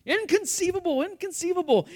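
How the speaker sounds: hammed-up Sicilian-style accent; mock Vizzini accent. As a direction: repeat it in a playful Vizzini accent. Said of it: "trying to do the accent".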